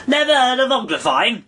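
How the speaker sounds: high, loud astonished cry; be amazed she never heard of it; loud, high astonishment; exclaiming. A narrator's reading. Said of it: "it exclaimed".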